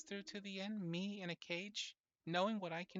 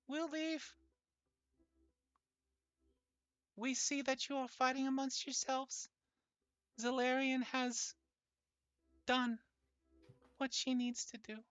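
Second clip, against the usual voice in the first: booming voice; 5 semitones higher than usual. Acted. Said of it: "has a booming voice".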